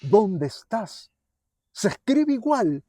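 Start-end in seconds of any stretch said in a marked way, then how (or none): 0.0-1.1 God calling. Acted. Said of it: "que quiere decir también".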